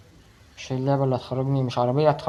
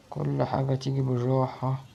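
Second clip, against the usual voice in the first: slow, each word stretched; slow steady mantra; slow self-calming; slower than usual. Real, not acted. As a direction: drag out بالراحة slowly to calm down. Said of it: "طب بالراحة".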